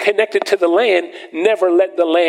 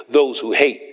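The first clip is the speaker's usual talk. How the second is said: lower, solemn preacher's voice for the verse; deep voice; 5 semitones lower than usual. Shown as a demonstration. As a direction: drop the voice low and heavy. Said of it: "Let me use my deep voice".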